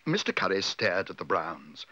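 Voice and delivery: ordinary delivery, nothing marked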